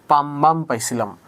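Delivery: P=A; soft L pronunciation. Shown as a demonstration. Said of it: "উচ্চারণটা পাম্বাম".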